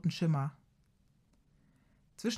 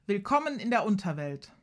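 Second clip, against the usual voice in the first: booming voice; 3 semitones higher than usual. Acted. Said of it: "sagt Kaya mit dröhnender Stimme".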